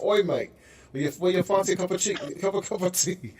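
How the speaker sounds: mock London accent, fast; a host hamming up a Brit offering tea; imitating British. Mock British accent. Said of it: "they're like".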